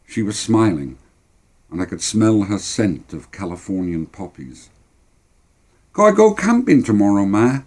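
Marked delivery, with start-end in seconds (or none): 5.9-7.6 put-on high-pitched eager boy asking permission; pleading boy. Boy asking Ma to go camping, pleading. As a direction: wheedle it like a hopeful child. Child asks mother permission.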